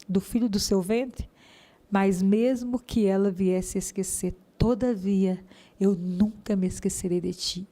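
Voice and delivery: slow, measured verse reading; scripture recitation. Retold or imitated. Woman quoting Isaiah's promise to her listeners, slow recitation. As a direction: recite it solemnly with weighty pauses.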